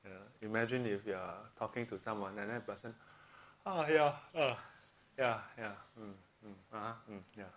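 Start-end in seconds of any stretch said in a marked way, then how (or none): 3.6-7.5 distracted fake listening. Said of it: "Probably not very convincing".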